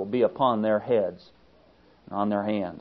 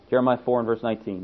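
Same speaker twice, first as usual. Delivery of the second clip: ordinary talk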